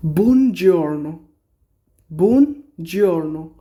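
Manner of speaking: greeting learners in Italian. Shown as a demonstration. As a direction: model বুনজিওর্নো slowly. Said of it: "বুনজিওর্নো মানে good morning".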